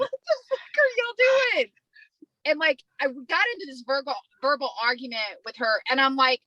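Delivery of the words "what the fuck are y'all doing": high-pitched retold outrage; heated confrontation. Patient confronting tourists outside the hospital, heated. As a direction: challenge them, voice shooting up.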